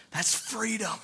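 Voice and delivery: hushed repeat. Real, not acted. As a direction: let it sink in, hushed.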